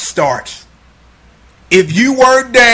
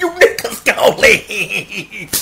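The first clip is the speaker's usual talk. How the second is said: mock tough-guy shout; 8 semitones higher than usual. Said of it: "walk up in the cut".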